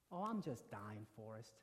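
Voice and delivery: soft, low reply with a smile; smiling. Retold or imitated. Dying mother answers her son Forrest, softly smiling. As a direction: say it gently through a smile. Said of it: "with a smile".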